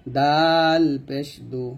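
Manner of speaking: slow, drawn-out দাল with a light d; tongue tip on upper tooth roots for a thin দু; thin consonant. Shown as a demonstration. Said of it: "তা এবং দাল পাতলা হবে". (পাতলা করে টেনে দাল পেশ দু)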